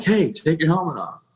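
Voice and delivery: calling out high to the medic; yelling at the flight medic over the helicopter; retold yell. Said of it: "I'm yelling at the flight medic".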